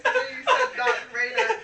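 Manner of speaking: choking Darth Vader impression; strained, choked villain voice; bad Darth Vader voice. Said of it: "That is the worst Darth Vader voice".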